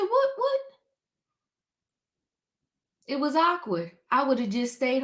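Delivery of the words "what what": high mock-startled "what, what"; retold disbelief. Host retelling her stunned reaction to Sweet Tea, high mock disbelief. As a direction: squeak it out in disbelief. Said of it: "I said".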